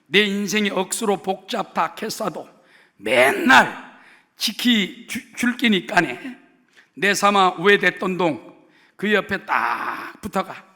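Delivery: 경상도 사투리로 힘차게 낭독; Gyeongsang dialect. Shown as a demonstration. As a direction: read the psalm broad and loud in Gyeongsang dialect. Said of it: "경상도 버전을 지금 읽어드립니다".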